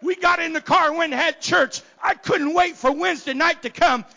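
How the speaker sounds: shouted high preaching climax; full-force revival preaching. Acted. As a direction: preach it loud to the rafters.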